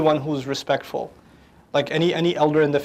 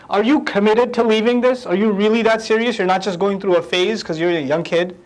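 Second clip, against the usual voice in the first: questioning father; 3 semitones higher than usual. Retold or imitated. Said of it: "he is now asking".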